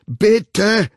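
high, loud, jolted plea; jerky protest. A narrator's reading. Woman pleading with her attacker, jerky protest. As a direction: beg while being shaken. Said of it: "protestierte sie stoßweise".

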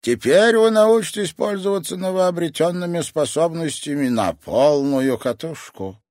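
very high, loud blurted cry; triumphant. Acted. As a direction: burst out in triumph. Sensei triumphing.

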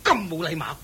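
loud, sharp rebuke; sharp scolding. Acted. Mistress rebukes her servant for being rude to the Buddha.

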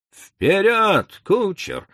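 loud call to the coachman. A narrator's reading. Doctor calling to the coachman, loud. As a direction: shout it to the driver. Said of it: "крикнул доктор".

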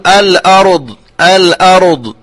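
الأرض with a bouncing ra; mock the jolted ra; imitating an error. Teacher imitates the ra qalqala. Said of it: "والباقي الآخر يقول".

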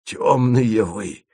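very slow exasperated scold; angry. A narrator's reading. Asen rebukes the ignorant travellers, angry. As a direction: drag out the scorn. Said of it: "разозлился Асен".

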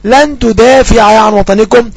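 slow, clear dictation of the example. Shown as a demonstration. Teacher giving students an example sentence, slowly. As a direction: dictate it word by word. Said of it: "لن طبعًا علامة نصب".

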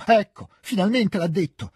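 high, vexed outburst; angry reproach. A narrator's reading. Countess turns angrily on her husband, high reproach. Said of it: "si rivolse adirata al marito".

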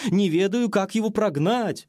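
ordinary delivery, nothing marked

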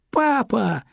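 put-on high, bright cry of a child greeting his dad; joyful shout. Son sees his father come in, a high joyful cry. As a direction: call out to dad, overjoyed. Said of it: "радостно закричал Денис".

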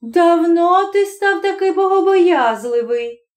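wife teasing her husband; mocking wife. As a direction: needle him about his piety. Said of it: "дивувалась жінка".

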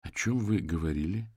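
slow, word by word; slow deliberate question. Acted. Detective questions the suspect, slowly and deliberately. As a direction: spell each word out coldly. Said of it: "медленно выговаривая слова".

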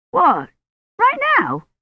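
shooting way up in surprise; incredulous boy's squeak; startled boy. A narrator's reading. Boy told to fetch the book, high startled voice. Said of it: "Colin startled by order".

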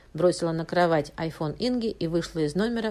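plain reading voice

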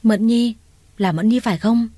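stunned to see her mistress here; surprised recognition. Acted. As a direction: blurt her name in astonishment. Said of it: "trố mắt kinh ngạc".

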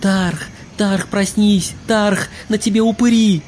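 high, frantic shouts to wake him; panicked yell. A narrator's reading. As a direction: yell down in alarm. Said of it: "Сверху нёсся несмолкающий крик".

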